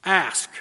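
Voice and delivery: a single emphatic ASK, then stop; emphasis on ASK. Shown as a demonstration. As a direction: ASK standing alone, firmly stressed. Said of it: "that's the emphasis".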